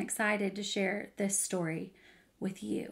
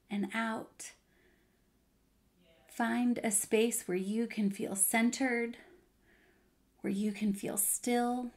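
guided meditation. Acted. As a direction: gently settle listeners into stillness. Leads a breathing pause.

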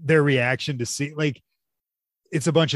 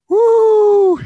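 loud, high cheer of delight; excited whoop; 13 dB louder than usual. Real, not acted. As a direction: let out a big joyful whoop. Cheering after a great joke.

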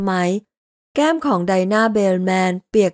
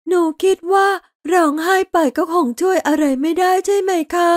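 put-on a girl pulling herself together; little girl after crying; 9 semitones higher than usual. A narrator's reading. Dinah asks Laurel after crying, high child voice.

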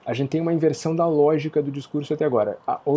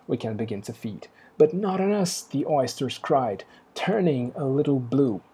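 poem recital; slower than usual. Acted. Teacher reading the oysters' cry to the class, measured recital. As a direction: read the verse steadily and let the oysters' protest ring out.

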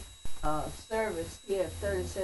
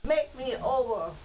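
poem recitation; 3 semitones higher than usual. Acted. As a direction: recite it like a church poem, each phrase set apart. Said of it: "But I'm gonna read it as a poem".

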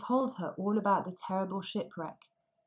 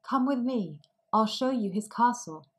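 put-on excited older sister; 4 semitones higher, 5 dB louder than usual. A narrator's reading. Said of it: "her eldest sister said".

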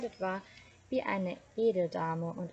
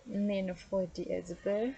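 choked voice. Acted. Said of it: "mit fast erstickter Stimme rief".

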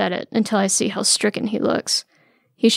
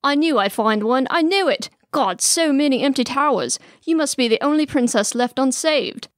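high, exultant prince; excited exclamation; 5 semitones higher than usual. A narrator's reading. Prince rejoices at finding a princess, excited exclamation. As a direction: exclaim with swooping, triumphant pitch. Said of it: "he exclaims".

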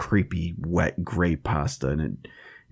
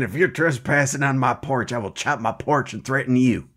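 threatening porch chopper; 5 semitones higher than usual. Acted. Acting the axe-carrying costumed porch hater.

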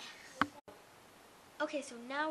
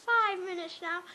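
talking with a retainer in; slightly slurred retainer speech; wearing a retainer. Real, not acted. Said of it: "'cause I have my retainer in".

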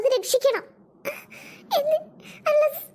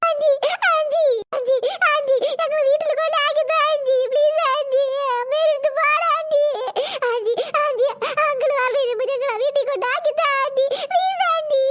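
put-on pleading child. Children begging aunt for help.

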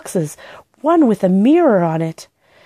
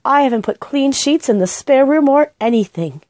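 raised pitch, fretful housekeeper voice; a hint of a fussing old housekeeper; flustered housekeeper; 7 semitones higher than usual. A narrator's reading. Housekeeper scolding about unmade beds, flustered.

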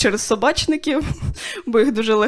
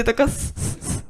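shushing hiss; 5 dB quieter, much slower than usual. Pretend. Hiding quietly in hide-and-seek.

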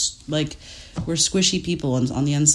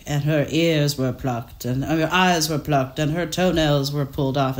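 creepy narrator voice. Retold or imitated. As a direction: read it like a chilling true-crime voice. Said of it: "a really creepy voice that's describing a murder".

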